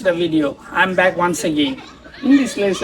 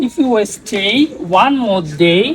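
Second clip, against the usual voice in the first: slow tongue twister recital; much slower than usual. Shown as a demonstration. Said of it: "tongue twister practice করব".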